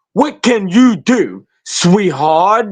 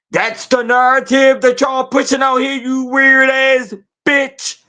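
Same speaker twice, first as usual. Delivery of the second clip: disrespectfully respectful; 5 semitones higher than usual. Real, not acted. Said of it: "in my most disrespectfulest, respectfulest voice".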